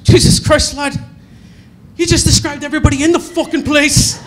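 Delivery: high, loud fed-up Irish bouncer; exasperated bouncer. Retold or imitated. The bouncer snaps at a customer's useless description, loud exasperated voice. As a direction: throw it back at him, fed up. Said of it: "he looks at me and he goes".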